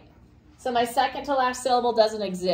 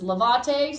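lavate stressed on the middle VA; mis-stressed lavate, weight on VA; stress on second syllable; 2 semitones higher than usual. Shown as a demonstration. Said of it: "stress normally is found on the second to last".

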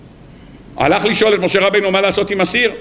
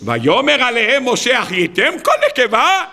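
mock shouted rebuke; 5 semitones higher than usual. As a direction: quote an outraged rebuke, raised in pitch only. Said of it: "משה רבינו בא וצועק". (תוכחה בקול גבוה ומתמשך)

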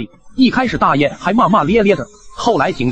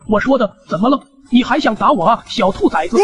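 put-on higher, defiant old geezer daring him; a cranky old man goading the young man; 5 semitones higher than usual. Old neighbour daring the young man to hit him, higher and defiant.

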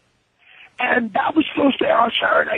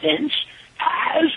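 mock grand announcement; 6 semitones higher than usual. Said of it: "I'm like".

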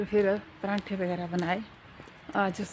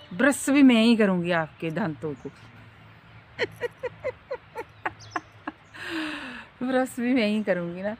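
laughing; 3 semitones higher than usual. Real, not acted. Laughing at her own threat.

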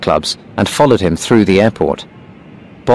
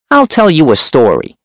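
high, sharp hunchback voice; 7 semitones higher than usual. A narrator's reading. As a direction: speak sharp and high, pitched up. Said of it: "The hunchback's voice was sharp and high".

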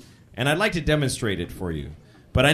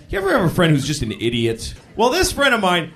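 normal talking voice

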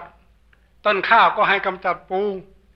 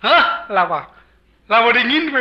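puzzled "huh?" jumping up in pitch; hard-of-hearing monk; 4 semitones higher than usual. Acted. Deaf monk fails to hear the devotee, raised puzzled voice. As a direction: play deaf and not catching it. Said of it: "อาจารย์เกยหนึ่งหูหนวก".

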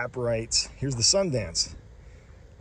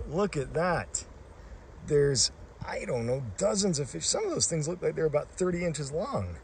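amazed; 4 semitones higher than usual. Real, not acted. Huge trout crowding the spring.

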